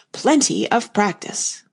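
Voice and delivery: slow, settled repetition; slow repeating. Acted. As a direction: say it again slowly. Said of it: "he went on repeating".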